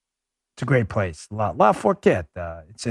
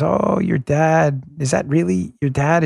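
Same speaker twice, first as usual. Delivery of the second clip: imitating a lady's drawn-out, higher "oh"; lightly mock-amazed questioning, pitched up; playful incredulity; 4 semitones higher, slower than usual. Lady teasingly quizzes his daughter.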